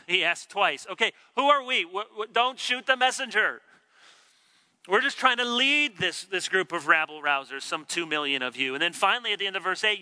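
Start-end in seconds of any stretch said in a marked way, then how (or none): 0.0-8.8 a touch of a harried Moses, raised; voicing Moses. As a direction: plead like a weary leader. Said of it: "Moses says".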